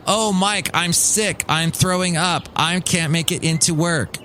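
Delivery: mock sick employee. Employee texting the boss that he can't come in, mock pleading.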